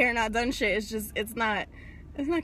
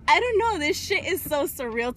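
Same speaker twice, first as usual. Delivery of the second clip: overcome with emotion; 5 semitones higher than usual. Real, not acted. Overwhelmed after meeting a subscriber.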